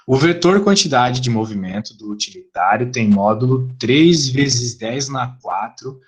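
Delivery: slow, low-pitched reading. Shown as a demonstration. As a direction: read it out low and measured. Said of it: "Eu tenho que falar mais baixo".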